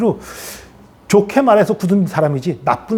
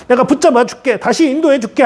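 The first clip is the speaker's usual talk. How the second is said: higher-pitched, heartening promise; encouraging; 8 semitones higher than usual. Acted. God promising support to someone fallen, encouraging. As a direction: lift them back up with assurance. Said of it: "격려하고 세워주시는 하나님이세요".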